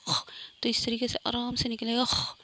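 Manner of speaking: raspy خ like a snore, let out gently; snoring kh sound. Shown as a demonstration. Teacher demonstrating a snoring خ. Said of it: "خراٹے کی طرح جیسے ہم کہیں گے نا خ".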